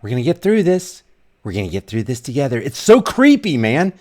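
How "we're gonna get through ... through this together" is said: put-on a light, sing-song parody of talking down to small kids; mock first-grade teacher. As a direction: mimic him soothing a class of six-year-olds, lightly. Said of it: "like he's addressing a class of first graders".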